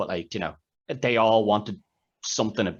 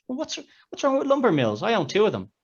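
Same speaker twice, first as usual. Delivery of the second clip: smug rich man; 13 semitones higher, 3 dB louder than usual. Retold or imitated. Rich man boasting, retold film.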